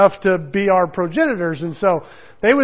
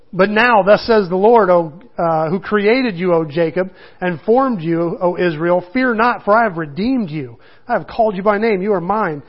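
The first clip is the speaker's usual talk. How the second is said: a slightly raised, earnest Bible reading; scripture reading. Acted. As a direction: read it out to the congregation. Reads scripture aloud.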